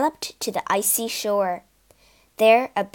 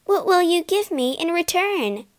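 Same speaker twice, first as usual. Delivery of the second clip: put-on higher girlish voice asking; Asta's voice; 8 semitones higher than usual. A narrator's reading. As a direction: bargain lightly, voice raised high. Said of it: "asked Asta".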